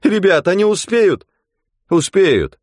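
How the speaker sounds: high, loud anxious talk; worried voices. Acted. Onlookers fret about the rescue. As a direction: fret aloud on the shore. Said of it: "волновались на берегу".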